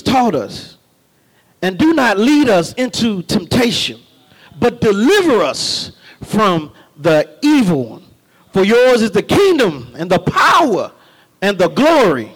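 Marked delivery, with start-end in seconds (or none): 1.6-12.3 solemn prayer, swelling on power and glory; prayer recitation. Acted. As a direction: pray it before the church.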